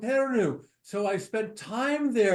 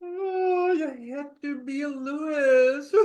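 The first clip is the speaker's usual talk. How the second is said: crying; 3 semitones higher than usual. Shown as a demonstration. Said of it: "now it's time to cry".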